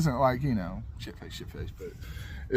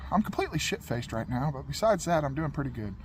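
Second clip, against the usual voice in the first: dead-straight delivery, no hint of a joke; deadpan; 4 dB quieter than usual. Answering the DMV clerk's greeting, completely deadpan. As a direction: say it straight-faced like it's nothing. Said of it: "I just said it straight-faced".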